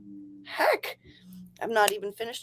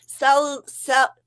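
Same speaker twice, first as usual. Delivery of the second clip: slow retry; 4 dB louder, much slower than usual. Shown as a demonstration. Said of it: "No, I can't do it fa".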